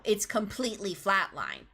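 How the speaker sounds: flat monotone, no feeling; flatline voice. Shown as a demonstration. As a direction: drone it out flatly. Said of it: "devoid of any kind of emotional nuance".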